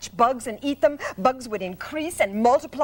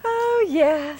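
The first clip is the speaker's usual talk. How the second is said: sweet musical; 6 semitones higher than usual. Acted. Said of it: "in her sweet musical voice".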